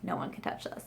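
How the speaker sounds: half-joking whispered claim on a book; mock possessive whisper. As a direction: hush it like a secret treasure. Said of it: "I'm like".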